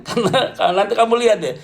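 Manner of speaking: talking through a chuckle; chuckling. Real, not acted. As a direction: let a laugh break into the words. Chuckles while warning the congregation.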